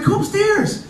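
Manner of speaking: put-on high child's voice calling; squeaky kid leading the way; little girl beckoning. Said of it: "She's like".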